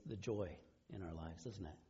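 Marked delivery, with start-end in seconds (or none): none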